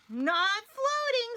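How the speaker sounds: mock-strained Bernard. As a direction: grit it out mid-effort. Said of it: "said Bernard".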